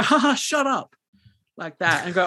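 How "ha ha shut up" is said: much higher mock laugh then a dismissive shut up; hammed-up fake laugh at a bad joke; fake laughter. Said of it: "fake laughter and go".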